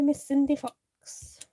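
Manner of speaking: Cindy drawn out, slow and emphatic; stress on Cindy. Shown as a demonstration. Greeting a viewer by her full name, Cindy drawn out. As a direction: say Cindy slowly with weight. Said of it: "you need to say her full name".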